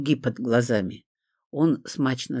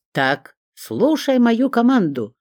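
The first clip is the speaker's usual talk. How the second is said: slow, higher and louder mock order; mock stern command; 9 semitones higher, 5 dB louder, slower than usual. A narrator's reading. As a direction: play-act the strict officer giving orders. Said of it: "делано насупился". (шутливо-строгий приказ, медленно)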